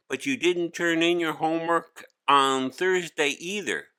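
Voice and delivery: a teacher summoning a pupil firmly; stern teacher. Acted. Teacher pressing Hari.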